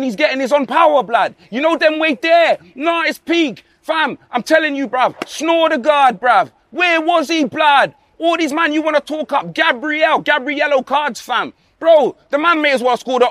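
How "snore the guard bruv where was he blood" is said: mock rant shout. Ranting fan calling out a player.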